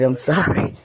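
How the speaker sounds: sorry with a laugh in it; laughing apology. Real, not acted. Apologizing to the interviewer with a laugh. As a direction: laugh off the outburst. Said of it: "I'm getting excited".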